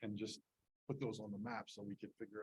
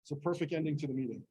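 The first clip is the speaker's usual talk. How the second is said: louder, fast, over the alarm noise; shouting over fire alarm; 4 semitones higher, 7 dB louder, faster than usual. Real, not acted. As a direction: raise your voice over a blaring alarm.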